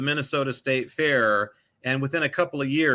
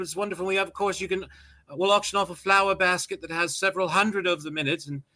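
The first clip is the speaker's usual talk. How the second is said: lightly voiced society hostess; higher, sing-song charity organiser; posh charity hostess voice; 5 semitones higher than usual. Imitating rich charity organiser.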